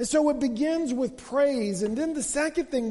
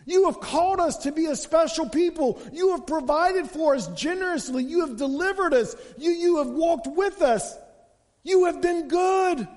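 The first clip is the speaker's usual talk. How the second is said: grateful prayer; 5 semitones higher than usual. Retold or imitated. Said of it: "they're reliving and going".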